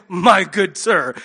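slow, mock-formal posh British accent; a pompous posh British gentleman, lightly hammed-up; stately posh British address said slowly, tongue in cheek. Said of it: "make it sound like they're British people in Downton Abbey".

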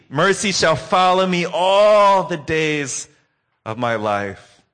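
lightly voiced grandmother swelling with feeling; old grandma voice. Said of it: "in her old voice".

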